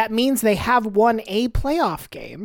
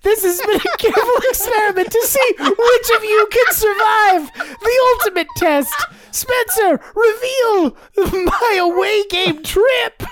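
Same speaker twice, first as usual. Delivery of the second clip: villain game-master voice; 8 semitones higher than usual. Pretend. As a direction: announce the test like a sinister host. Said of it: "I don't know what voice this is".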